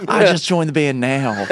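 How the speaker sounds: slow, laughing imitation; mock a bandmate's answer, drawn out; teasing put-on voice through a laugh. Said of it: "Don't mock me".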